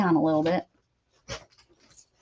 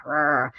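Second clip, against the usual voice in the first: mock growl; 7 semitones lower than usual. Shown as a demonstration. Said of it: "You, like, have to".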